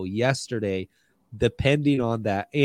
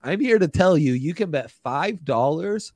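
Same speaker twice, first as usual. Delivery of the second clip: ad read; 3 semitones higher than usual. Acted.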